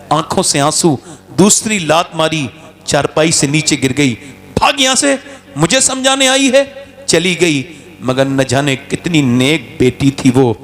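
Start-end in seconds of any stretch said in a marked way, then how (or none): 4.6-6.8 higher, rough order to get out; chaudhry shouting his daughter away; angry dismissal. Acted. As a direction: chase her off in a temper. Chaudhry kicks and drives her out.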